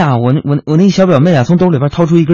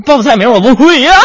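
laughing; 10 semitones higher, 4 dB louder than usual. Real, not acted.

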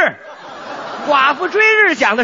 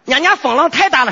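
Baoji accent. Shown as a demonstration. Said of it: "分多清楚".

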